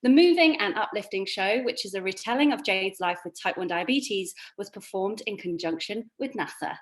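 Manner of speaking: crisp, measured news read. Shown as a demonstration. Host reading her news sign-off. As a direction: read it like a bulletin anchor. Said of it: "I like your news voice".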